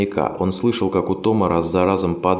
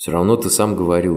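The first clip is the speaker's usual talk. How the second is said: plain reading voice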